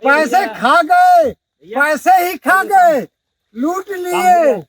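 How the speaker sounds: slow, bitter outcry over stolen money; bitter accusation. Real, not acted. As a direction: drag it out, accusing. Man cries out at corrupt officials.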